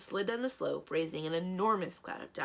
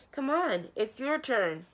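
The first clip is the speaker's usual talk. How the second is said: calling out; 6 semitones higher, 6 dB louder, slower than usual. Acted. Calling up the slope.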